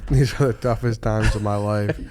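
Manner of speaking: repeats it through laughter; laughing while echoing the line. Pretend.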